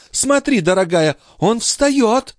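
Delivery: high, exclaiming countess; mock amazement. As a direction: marvel sarcastically at the lazy brother. Countess mocks her lazy brother.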